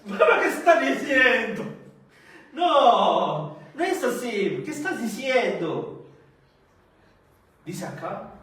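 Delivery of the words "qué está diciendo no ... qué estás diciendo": scoffing disbelief, higher and louder; mocking mourners. Mourners laughing at Jesus's words, scoffing. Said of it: "Y se burlaban de él".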